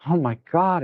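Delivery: real frustration, not shouted; stressed out. Real, not acted. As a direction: let the stress burst out briefly. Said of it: "it's stressing me".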